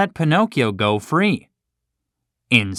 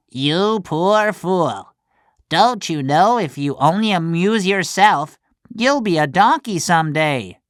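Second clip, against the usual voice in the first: scolding cricket; 7 semitones higher than usual. Acted. The cricket warning Pinocchio about becoming a donkey, pitying. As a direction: shake your head at the silly boy.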